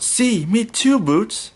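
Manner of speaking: a little explorer agreeing happily; Dora voice. A narrator's reading. Dora's voice in the story.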